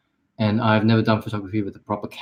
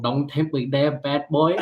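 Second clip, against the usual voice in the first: mock British accent; 3 semitones higher, slower than usual. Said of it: "speak in British".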